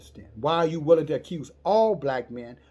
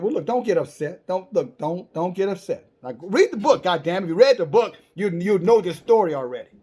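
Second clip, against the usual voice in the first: pleading Abraham; 4 semitones higher, 6 dB louder than usual. Acted. Abraham pleads with angry angels.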